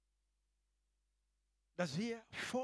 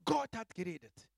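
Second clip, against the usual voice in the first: loud proclamation; 3 semitones higher, 8 dB louder than usual. Acted. Preacher to congregation, proclaiming it loudly. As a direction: declare it out loud. Whispered then repeated aloud.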